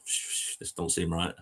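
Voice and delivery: breathy hushed whisper, barely voiced. Creeping into a strange flat, whispering to himself. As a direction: hush it like you're sneaking in.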